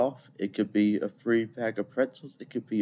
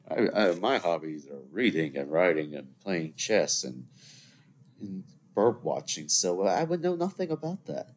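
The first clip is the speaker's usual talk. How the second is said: mock innocence. Feigning innocence about drinking, convincing listeners.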